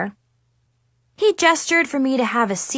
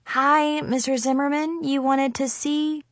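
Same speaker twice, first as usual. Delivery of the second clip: higher-pitched, hesitant hello; a touch of nerves, pitched up; tentative greeting; 4 semitones higher than usual. Acted. Nervous student peeks into office.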